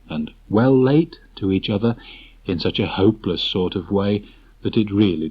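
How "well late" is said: lightly voiced gloomy friend; mournful greeting. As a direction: sigh it out hopelessly. Early answers Late mournfully.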